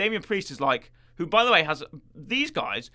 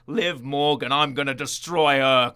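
intense Rhea; 5 dB louder than usual. Retold or imitated. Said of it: "she sounds really intense".

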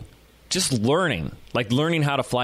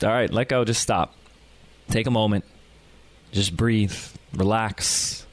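lower, settling voice with pauses between phrases; calming coach; 3 semitones lower than usual. Retold or imitated. Coach calming an angry student, lightly voiced reassurance. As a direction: gently talk someone down, pitch dropping. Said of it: "my coach asked me to just stop".

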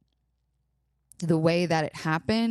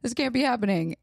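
imagined listener disbelief; 4 semitones higher, faster than usual. Retold or imitated.

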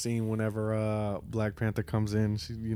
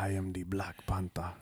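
Black Panther impression; 3 semitones lower, 8 dB quieter than usual. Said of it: "Chadwick Boseman's voice for Black Panther".

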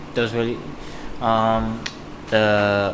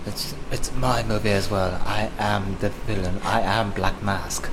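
slow, measured British villain; lightly menacing British guy; Black Mask; 3 dB quieter than usual. Acted. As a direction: announce yourself slowly as the villain. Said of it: "I'm supposed to be the scary British guy".

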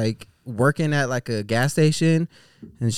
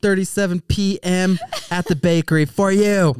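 hammed-up dramatic confession; 8 semitones higher, 3 dB louder than usual. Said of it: "She's like".

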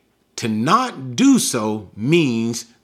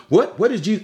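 mild surprise; 6 semitones higher, faster than usual. Acted. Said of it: "simply arguing in the sense of".

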